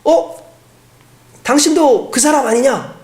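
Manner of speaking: high, prying question to Peter; suspicious servant girl. Retold or imitated. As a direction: point him out, half sure. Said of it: "여종이 이렇게 보니까".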